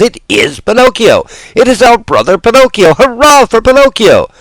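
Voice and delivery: very high, loud crowd cheer; cheering yell. Acted. Marionettes hailing their brother Pinocchio, cheering yell. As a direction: cheer at full throat. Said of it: "yelled all the marionettes".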